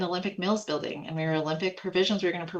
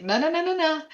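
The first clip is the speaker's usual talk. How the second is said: emphatic refusal; 12 semitones higher, 4 dB louder than usual. Retold or imitated.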